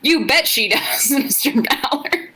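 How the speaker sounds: slow, drawn-out sly teasing. A narrator's reading. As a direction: tease it out slyly, stretching the words. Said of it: "he said slyly".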